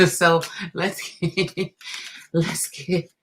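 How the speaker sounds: laughing through let's get. Real, not acted. Reader laughing after her skit, laughing. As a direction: laugh while getting back on track.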